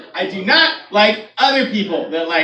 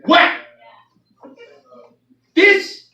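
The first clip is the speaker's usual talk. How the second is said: higher astonished exclamation; wide-eyed mock wow; mock amazement; 8 semitones higher, 4 dB louder than usual. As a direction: gasp in fake wonder. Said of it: "watching this going".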